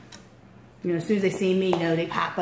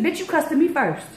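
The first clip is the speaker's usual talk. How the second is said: angry yell; 8 semitones higher than usual. Retold or imitated. Street argument shouting back.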